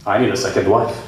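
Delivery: low-pitched Arab husband; Arab accent. Acted. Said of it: "Arab guy kinda wakes up one day and he's just like".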